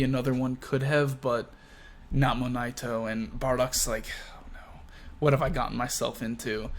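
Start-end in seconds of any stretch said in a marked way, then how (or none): 4.3-6.7 hushed, softer acted dread; mock dismay under the breath; worried aside. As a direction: half-whisper it to yourself. Acting Bardock's private dread.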